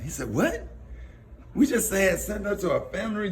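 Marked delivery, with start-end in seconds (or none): 0.3-0.7 imitated high, rising "what"; sharply rising disbelief; shocked question. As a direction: act out a friend's stunned reaction. Friend's retold shock at news.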